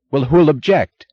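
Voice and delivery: sharp, loud, high snap; snapped. A narrator's reading. Lawson snapping back at Ferris, loud and sharp. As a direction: bite the question off. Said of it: "snapped Lawson".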